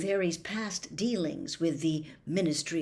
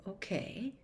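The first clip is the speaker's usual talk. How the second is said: slowly; 10 dB quieter than usual. A narrator's reading. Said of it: "said Harry, slowly".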